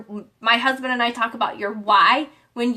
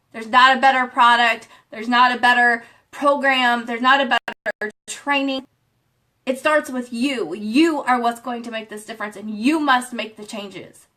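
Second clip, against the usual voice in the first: motivational preaching; 2 semitones lower than usual. Real, not acted. Motivational push to viewers.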